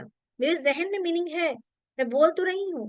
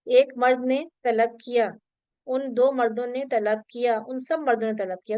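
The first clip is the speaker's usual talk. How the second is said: slow reading; 2 semitones lower than usual. Shown as a demonstration. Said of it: "अगर आप इस तरह लिखेंगे".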